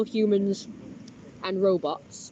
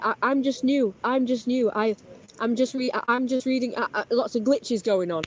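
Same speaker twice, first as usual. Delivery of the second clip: higher stammering imitation; stammering caller; 6 semitones higher, 3 dB louder than usual. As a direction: stutter like a glitching robot caller. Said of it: "she was like".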